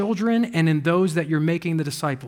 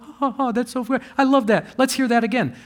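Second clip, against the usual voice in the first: hint of tickled listeners, higher pitch; flattered listeners; 5 semitones higher than usual. Imagined congregation lapping up pleasing words, mock delight. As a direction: lightly mimic a delighted, approving crowd. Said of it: "They're gonna be like".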